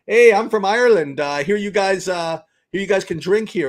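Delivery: lightly voiced Irish newcomer, loud hello; a hint of the Irishman bursting in; Irish guy. Irish guy greeting Texas bar, lightly voiced loud. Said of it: "the guy comes in".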